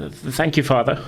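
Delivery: stammering thanks, mildly scared; lightly voiced nervous boy. Timid son thanks father.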